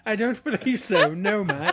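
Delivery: mimicking a mock-British voice; put-on British accent. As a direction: copy a friend's silly British accent. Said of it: "What's the worst accent ever".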